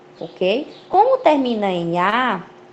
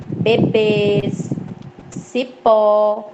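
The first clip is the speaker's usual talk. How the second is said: BEBÊS and CIPÓ with the final syllable held long; stress on last syllable; much slower than usual. Shown as a demonstration. Teacher reads oxytone examples to students, stressing the endings of BEBÊS and CIPÓ. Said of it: "a sílaba tônica é a última".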